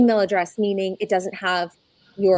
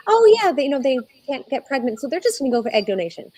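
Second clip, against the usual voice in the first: breezy, higher-pitched mock remark; mock casual; 5 semitones higher, 4 dB louder, faster than usual. Donor voicing a casual view of egg donation, mock breezy. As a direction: toss it off as if it were nothing.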